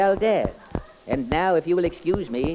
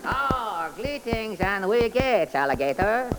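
sing-song comic detective character; 3 semitones higher, slower than usual. Acted. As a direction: play the bumbling detective, chirpy.

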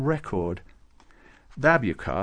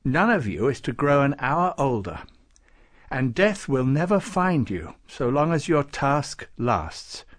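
lightly voiced saint, bestowing; 4 semitones higher, 3 dB louder than usual. Nicholas granting gifts to Klaus, ceremonious.

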